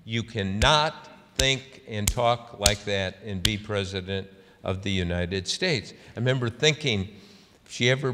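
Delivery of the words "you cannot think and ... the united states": emphatic imitated insistence, easing toward the end; intense. Senator rebuking a reporter over Lincoln, mildly intense. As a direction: retell a firm telling-off, stressing each point. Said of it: "And then she really, the fist started flying".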